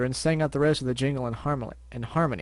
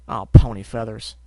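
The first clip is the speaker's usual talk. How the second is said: groaned; 4 semitones lower, 10 dB louder than usual. Acted. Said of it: "the apple bucker groaned".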